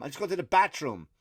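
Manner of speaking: acted-out Irish-accented protest. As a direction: plead innocence with an Irish lilt. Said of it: "I just do it in an Irish accent".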